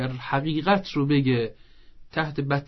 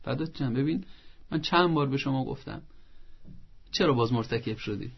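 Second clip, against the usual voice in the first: softer, tender parent scolding lightly; calm and tender reproach; gentle parent; 6 dB quieter than usual. Shown as a demonstration. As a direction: coax the child kindly, not angry. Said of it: "اما بگه".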